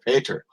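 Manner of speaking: Pater said with a broad ah, PAH-ter; Russian-tinged PAH-ter for Peter; Russian-accented Pater. Acted. Questioned about the rite, answers in Russian-tinged Pater. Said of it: "it's just your accent that makes it sound different".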